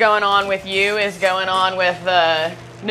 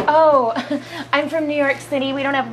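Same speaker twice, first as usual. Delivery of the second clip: mock New Yorker; 3 semitones higher than usual.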